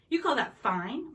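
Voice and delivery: loud, slow outraged question. A narrator's reading. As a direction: spit it out in disbelief.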